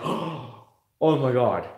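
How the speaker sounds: slow, drawn-out amazed oh my God; breathless car-fan awe; awed gasp. Retold or imitated. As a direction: gasp it like you just saw your dream car.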